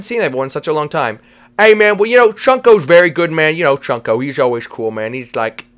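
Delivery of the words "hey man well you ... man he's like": slurred cartoon buddy. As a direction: play a goofy pal with slushy consonants. Voices Vinny character.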